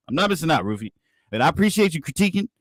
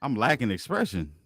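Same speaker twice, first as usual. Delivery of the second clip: deadpan; 6 semitones lower, 8 dB quieter than usual. Real, not acted. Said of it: "as plain as you can fucking say it".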